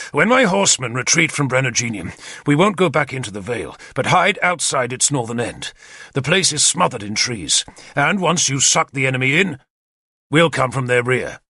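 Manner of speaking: a lightly voiced commander, brisk and eager; keen war leader briefing his captains; Arthur's plan. Arthur explains the attack to his captains, eager and confident.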